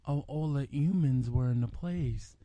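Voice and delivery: slowly, with "humans" said as "yoomans"; "humans" starting on a Y sound; dropped H. Retold or imitated. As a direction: read it out, leaving the H off "humans". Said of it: "she literally dropped the H".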